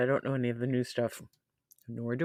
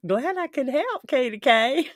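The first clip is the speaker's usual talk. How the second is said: squeal; 11 semitones higher, 8 dB louder than usual. Real, not acted. Playful reply to chat.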